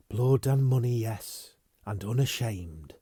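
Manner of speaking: defiant admission to her lover; cool defiance. Acted. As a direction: throw it back unashamed. Defiant answer.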